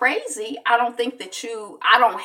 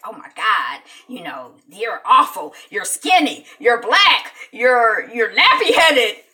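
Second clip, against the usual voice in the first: mocking kids; 6 dB louder, slower than usual. Kids teasing her at school.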